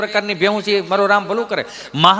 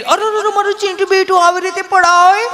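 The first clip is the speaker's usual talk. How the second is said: high, fussy doting mom voice; mock-alarmed mommy voice; doting mother; 12 semitones higher, 4 dB louder than usual. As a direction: coo over the fallen child like a mother. Mother fussing over fallen child.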